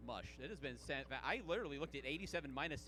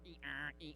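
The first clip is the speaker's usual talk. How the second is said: beeping dial-up noise, softer; dial-up tone imitation; 4 semitones lower, 6 dB quieter than usual. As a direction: beep like an old modem. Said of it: "dial tone boot up sound".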